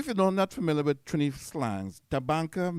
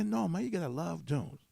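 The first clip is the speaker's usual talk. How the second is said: higher, insistent imitated American accent; 5 semitones higher, 4 dB quieter than usual. Friend insisting to puzzled Mike, in an imitated American accent. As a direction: mimic an American insisting on the point. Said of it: "American accent".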